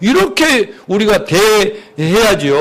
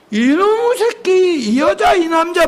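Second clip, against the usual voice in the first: mock insult; 8 semitones higher than usual. Pastor acting someone cursing the person who wronged him. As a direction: go after the person, not the problem. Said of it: "사람을 얘기할 게 아니라".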